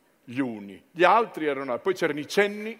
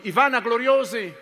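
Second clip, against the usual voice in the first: high proclaiming; 7 semitones higher, 4 dB louder than usual. Acted. Name repeated in high voice.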